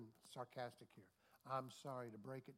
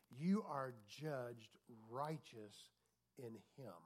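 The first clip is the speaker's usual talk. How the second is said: slow solemn declaration; 3 semitones lower, slower than usual. Acted.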